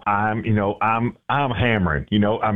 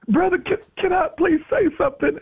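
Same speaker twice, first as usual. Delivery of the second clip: lady's voice, much higher and timid; radio host voicing a timid old lady in church; high little lady voice. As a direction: play the sweet old church lady asking. Lady in church asks politely.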